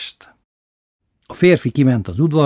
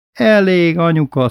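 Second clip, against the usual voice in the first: high, raised pleading call; urgent plea; 7 semitones higher, 4 dB louder than usual. A narrator's reading. Aunt calling in to stop grandmother's beating, high urgent plea.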